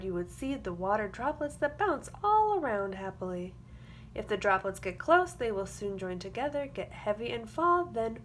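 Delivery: put-on lively storybook read for young kids; sing-song picture book reading; reading to children. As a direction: read it like circle time, bright and clear. Reads a picture book aloud.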